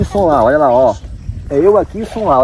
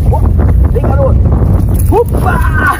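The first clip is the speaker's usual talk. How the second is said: loud, high cry as the fish lands; sudden high whoop; excited shout; 12 semitones higher, 6 dB louder, slower than usual. Real, not acted. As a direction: yell it out in triumph. Reeling in the fish.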